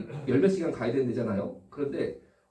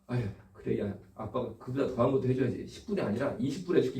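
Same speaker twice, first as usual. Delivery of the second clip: lower, softer reassuring dad; indulgent father; 4 semitones lower, 4 dB quieter than usual. Pretend. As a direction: act out a parent gently giving in. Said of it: "아니면". (낮고 부드럽게 달래는 아빠 흉내)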